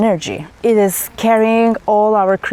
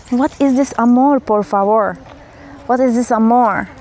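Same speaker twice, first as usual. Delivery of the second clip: hammed-up fake Spanish accent; playful mock Spanish accent, leaning on amor; 3 semitones higher than usual. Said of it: "that was my fake accent".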